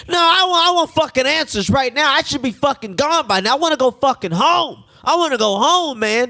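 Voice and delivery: mock outraged protest; indignant patient. Patient arguing with the nurse, angry protest. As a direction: act out a man demanding to go home.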